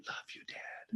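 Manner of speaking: voiceless, very soft whisper; whispered reply. Retold or imitated. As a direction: whisper it back as if mouthing to Dad. Answering his mouthed farewell.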